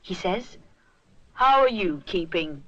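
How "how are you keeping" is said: a lightly voiced friendly constable; hint of a jovial village policeman. A narrator's reading. Constable voice, far timbre.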